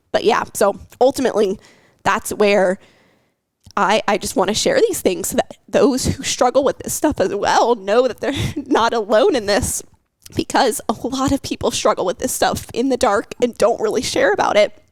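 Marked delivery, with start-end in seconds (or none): 3.8-14.8 higher voice full of real emotion; getting emotional. Real, not acted. Woman telling fellow strugglers they are not alone, emotional. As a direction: push on through rising emotion. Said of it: "I'm getting so emotional here".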